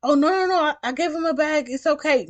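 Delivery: high mock girly pleading voice; mocking the girl. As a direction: squeak it out like the flustered passenger. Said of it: "She like".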